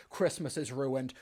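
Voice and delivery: hammed-up woe over a small thing; mock melodramatic lament. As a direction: sigh it out like it's a tragedy. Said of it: "he's just like".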